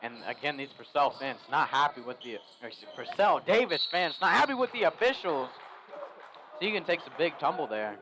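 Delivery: chewing while commentating; talking round a bite of pretzel; mouth full. Real, not acted. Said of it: "I'm trying to eat a pretzel".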